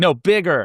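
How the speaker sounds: acted brusque, terse delivery. Retelling a message typed to a chatbot: imitating own terse command. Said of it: "much more terse".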